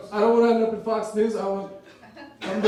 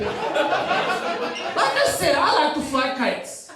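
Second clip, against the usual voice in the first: slow; 6 semitones higher, much slower than usual. Real, not acted. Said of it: "I'm afraid of you a little bit".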